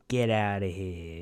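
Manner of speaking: slow Italian-American mobster brush-off; Paulie Walnuts. Acted. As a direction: dismiss them slowly, Italian-American wise guy. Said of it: "instead of "Get over here," I'd be".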